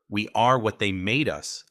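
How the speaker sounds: a hard edge creeping in; sharpened tone. Acted. She drops the teasing, voice turning sharp. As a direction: cut the words sharp and cold. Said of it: "Her tone sharpened".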